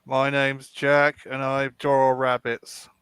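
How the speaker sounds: slow, deliberate mock impression of a friend; impression of Jack. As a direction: lightly mimic Jack, drawn out. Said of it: "impersonate me".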